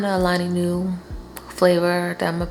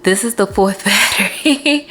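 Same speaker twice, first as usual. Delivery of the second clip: breathless after running around; out of breath. Real, not acted. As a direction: talk while catching your breath. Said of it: "I'm out of breath".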